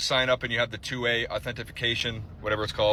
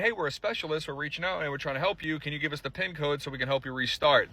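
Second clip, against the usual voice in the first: soft, sweet-talking fake specialist; mock scammer voice; 6 dB quieter than usual. Imitating the scammer who sweet-talks a victim out of a pin, soft and fake-friendly. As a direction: coax like a fake helpful specialist. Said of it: "by saying".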